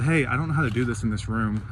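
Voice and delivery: even and unhurried, composed; calm. Retold or imitated. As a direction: ask the manager calmly, keeping cool. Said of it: "So I calmly went up to the".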